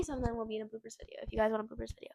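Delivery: soft whisper to viewers. Real, not acted. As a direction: whisper the offer to the audience.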